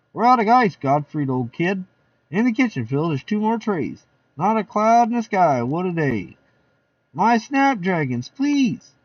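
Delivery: high, lively guest voices; party guests. Acted. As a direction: chatter like a rowdy party guest.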